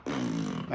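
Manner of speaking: deflated puff of air through the lips; lip-blown pff. Acted. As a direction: blow out a helpless low pff. Acts out failing to speak.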